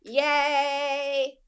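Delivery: high, slow, drawn-out proclamation; celebratory announcement. Real, not acted. Co-host announcing hundredth episode, drawn-out fanfare. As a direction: stretch each word out in celebration.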